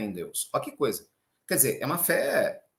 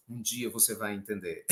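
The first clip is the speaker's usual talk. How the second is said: much softer, wise-adult aside; knowing adult; 8 semitones lower, 9 dB quieter than usual. Retold or imitated. Adult telling a child someday you'll understand, hushed. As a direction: say it like every grown-up once did. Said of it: "O adulto falando pra nós".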